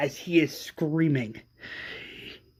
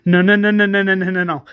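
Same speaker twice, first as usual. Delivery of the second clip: higher and much louder repeated no; distraught cries; 4 semitones higher, 8 dB louder, much faster than usual. Acted. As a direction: cry out in denial. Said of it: "Tara comes out and says".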